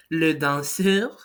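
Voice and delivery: le danseur said slowly; French le danseur. Shown as a demonstration. Teacher models the masculine dancer. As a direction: sound out le danseur carefully. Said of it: "For example".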